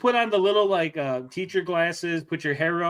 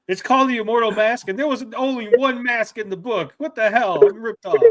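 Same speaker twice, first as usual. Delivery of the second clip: indignant complaint; 5 semitones higher, 5 dB louder than usual. Retold or imitated. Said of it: "She's gonna be like".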